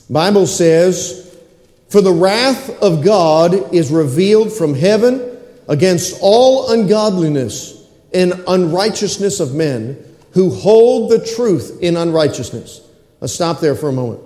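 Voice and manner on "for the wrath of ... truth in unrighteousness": slow, weighty reading of the verse; scripture reading. Acted. Pastor reads Romans to the congregation, slow and solemn. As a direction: let each word of scripture land slowly.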